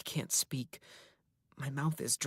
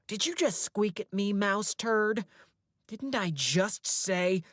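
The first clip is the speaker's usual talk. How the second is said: higher, louder, scornful; angry snap; 7 semitones higher, 4 dB louder than usual. A narrator's reading. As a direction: bite down on mouse turd. Captor snaps at boy.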